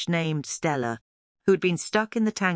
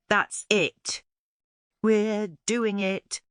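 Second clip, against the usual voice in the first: calling out; 6 semitones higher, much slower than usual. A narrator's reading. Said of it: "he called out".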